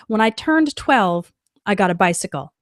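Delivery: slow model sentence. Shown as a demonstration. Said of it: "will just say".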